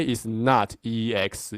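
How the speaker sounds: "not" slowed and weighted, each letter of "E X" spelled out deliberately; slow, firm warning that "E X" is wrong; stress on NOT. Shown as a demonstration. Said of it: "Especially it's not E X".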